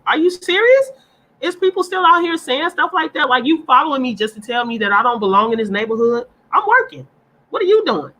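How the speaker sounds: high, incredulous outrage; outraged disbelief. Real, not acted. Reacting to being told she doesn't belong, outraged and incredulous. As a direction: pitch shoots way up in disbelief.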